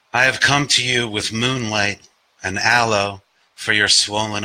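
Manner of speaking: deliberate poet's cadence, dropping away at the close; poetry reading. Acted. Reads own poem aloud.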